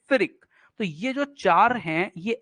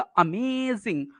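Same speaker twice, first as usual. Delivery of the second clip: अमेजिंग with a long, drawn-out मे; stress on मे; 2 semitones higher, 3 dB quieter, much slower than usual. Shown as a demonstration. Teacher repeating the example word, stress on मे in अमेजिंग. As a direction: stretch the मे in अमेजिंग. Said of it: "stressed हो गया".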